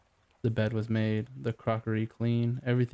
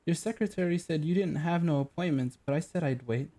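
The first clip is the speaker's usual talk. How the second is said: put-on West Country accent; 6 semitones higher than usual. Shabby client to the detective, lightly West Country. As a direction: explain in a plain West Country lilt. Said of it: "West Country accent".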